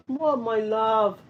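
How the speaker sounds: high, drawn-out coo to a pet. Real, not acted. Mom asking her cat what he wants in slow baby talk. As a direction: stretch it out sweetly for the cat.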